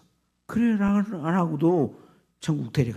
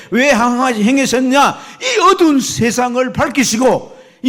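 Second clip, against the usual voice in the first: loud, high-pitched sermon cry; impassioned high, loud preacher; full-force preaching; 10 semitones higher, 12 dB louder than usual. Real, not acted. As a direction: preach it with rising fervour at full volume.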